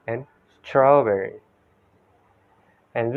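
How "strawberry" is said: "strawberry" said "straw-berry" with rounded vowel; American-style "strawberry"; American pronunciation. Shown as a demonstration. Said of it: "See the difference from".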